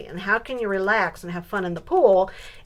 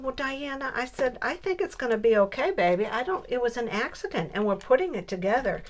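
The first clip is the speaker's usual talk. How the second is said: soothing grandma; 5 semitones higher than usual. Retold or imitated.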